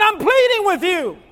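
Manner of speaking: high, loud imploring cry; Paul pleading. Acted. Paul to someone texting during his talk, pleading loudly. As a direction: break through to a distracted listener. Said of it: "somebody's pleading with you".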